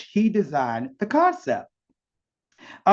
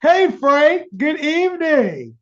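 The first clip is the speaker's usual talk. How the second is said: excited greeting; 12 semitones higher, 8 dB louder, slower than usual. Real, not acted. Host greets guest on air.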